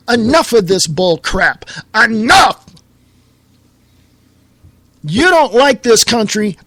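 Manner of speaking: building to a loud angry shout; rising fury ending on a loud shout; angry outburst. Real, not acted. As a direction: snap it out, fed up and furious. Ranting at immigrants, rising anger.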